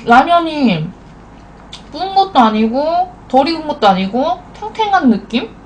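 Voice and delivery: speaking between noodle bites; talking while chewing. Real, not acted. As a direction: mouth full of noodles. Seen 0: face clear; mouth full, cheeks puffed, slurping noodles between words.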